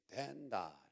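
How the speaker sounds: Gyeongsang dialect lilt, falling away; amateur attempt at Gyeongsang speech; Gyeongsang accent. Shown as a demonstration. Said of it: "경상도 버전으로".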